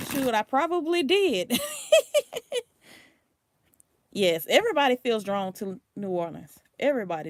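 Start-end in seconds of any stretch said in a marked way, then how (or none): 0.1-1.7 mom laughing. Retold or imitated. Mom's reply, voiced with laugh.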